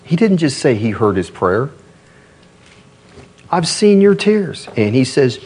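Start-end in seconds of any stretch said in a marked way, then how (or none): 3.5-4.7 slow, higher-pitched insistence; emphatic repeat. Acted. Preacher insists God did more than hear, slow and emphatic. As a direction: press the point home, slowly and higher.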